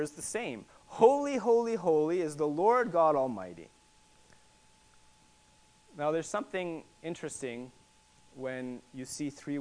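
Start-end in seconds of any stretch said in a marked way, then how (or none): 0.9-3.7 calling out. Acted. Creatures calling to each other, calling out in praise. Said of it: "they're calling to each other".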